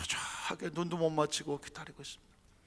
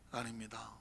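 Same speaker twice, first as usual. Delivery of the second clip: ordinary talk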